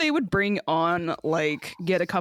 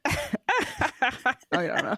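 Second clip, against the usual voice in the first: witch laugh; 6 semitones higher, much slower than usual. Acted. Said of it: "I can't do witch left".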